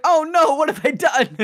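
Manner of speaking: high dismayed "oh no"; hammed-up horror at her own wish; mock panic. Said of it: "she's like".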